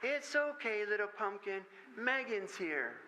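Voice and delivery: put-on a tiny girl mothering a doll; little girl soothing. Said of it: "this little voice saying".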